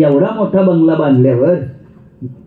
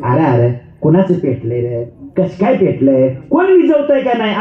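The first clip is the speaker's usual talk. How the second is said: mock concerned old man; 3 semitones lower than usual. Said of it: "काय म्हणायला पाहिजे".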